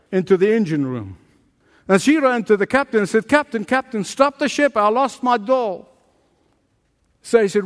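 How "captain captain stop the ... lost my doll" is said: put-on higher, pleading little girl; a small girl begging; girl's voice. Girl begs the captain.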